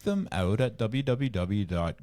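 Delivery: scripted sponsor sign-off; ad read. Acted. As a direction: spell out the address, then land the slogan.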